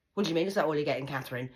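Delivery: loud indignant shout; mother yelling at her daughter over the presents, loud; mum shouting. Retold or imitated. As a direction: snap it back at her, outraged. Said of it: "She says".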